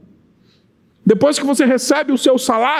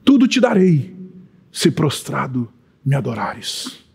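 Satan tempting; 9 semitones lower, slower than usual. Retold or imitated. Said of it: "da boca do próprio Satanás".

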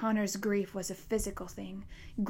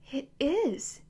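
tearful insistence; 5 semitones higher, 4 dB louder than usual. A narrator's reading. Connor insists in tears.

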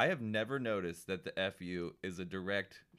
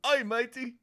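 high, loud mock Australian greeting; hammed-up Australian "Oi, matey"; Australian accent; 13 semitones higher, 6 dB louder, slower than usual. Mocking a made-up Aussie wrestler in an Australian accent. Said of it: "a guy that goes".

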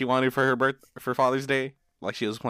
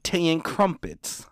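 mock British accent; 4 semitones higher, slower than usual. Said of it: "why your British, uh, accent".

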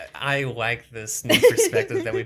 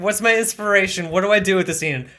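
mock actor whine; 8 semitones higher, 8 dB louder, faster than usual. Actor girl mock asks director.

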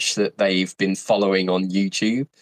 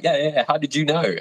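higher-pitched mock amazement; amazed reply; 7 semitones higher, faster than usual. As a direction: imitate an astonished student, pitched up. Acted amazed reply of spotted students.

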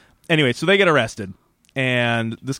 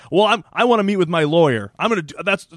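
higher, mildly indignant demand; protesting Jack; 5 semitones higher than usual. Retold or imitated. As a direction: lightly mimic someone insisting on their rights. Voicing Jack demanding a lawyer.

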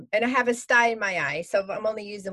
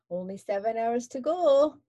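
sing-song voice. Acted. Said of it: "he says in a sing-song voice".

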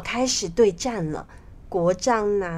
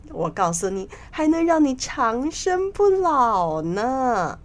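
amused, scheming minister; 3 semitones higher than usual. Acted. Minister tempting the king with a better heart, amused and coaxing. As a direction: coax the king, swooping up on the tempting bits. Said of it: "笑道".

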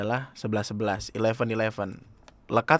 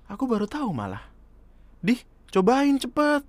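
put-on girl voice; 11 semitones higher than usual. Voicing girl character in story.

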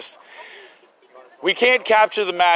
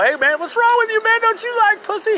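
mock dumb bro voice. Retold ignorant younger self.

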